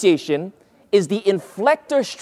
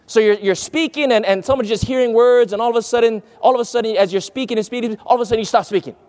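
running chatter on "speaking and speaking", cut dead after "stop speaking"; sudden dramatic pause; 4 semitones higher, faster than usual. Shown as a demonstration. Preacher demonstrating the pause to listeners, running on then stopping. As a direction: keep "all of a sudden" rolling, then halt into long silence. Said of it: "That's the pause".

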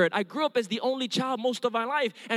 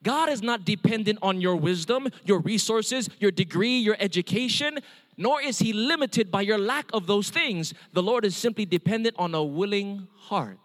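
preaching appeal. Acted. Closing appeal of sermon.

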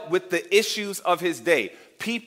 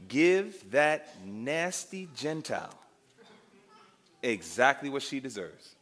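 scornful disciples; 5 semitones lower, 6 dB quieter, slower than usual. Retold or imitated. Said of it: "The disciples are like".

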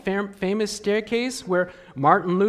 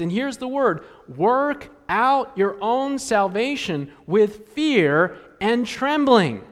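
scripture reading. Acted. Preacher reading the verse to the congregation. Reads verse twelve aloud.

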